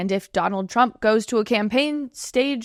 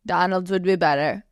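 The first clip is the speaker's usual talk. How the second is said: weak Trump impression, tune rising at the end; second take, a touch more Trump lilt; Donald Trump impression, second try; 3 semitones lower than usual. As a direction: repeat it with a lift on "be", lightly mimicking Trump. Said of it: "I don't have a really good voice".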